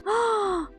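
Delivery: high-pitched gasp of wonder; amazed gasp. Real, not acted. Player seeing the hatched dinosaur, amazed gasp.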